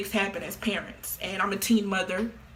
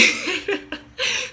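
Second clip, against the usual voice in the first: short high breathy giggle; a quick delighted giggle; 11 semitones higher, 3 dB louder than usual. Real, not acted. Gleeful boast about beating.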